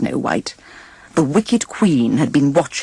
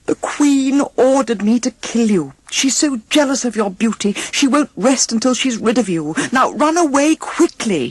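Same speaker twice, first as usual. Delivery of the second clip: urging huntsman; 7 semitones higher than usual. A narrator's reading. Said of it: "he urged her".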